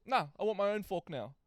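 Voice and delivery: a hint of a fussy kid; imitating demanding child. Child asking the adult for a fork, lightly imitated demand.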